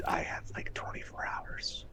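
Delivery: a hushed, breathy aside with no voice; whisper. Acted. Vash whispers his deadline to the group, hushed whisper.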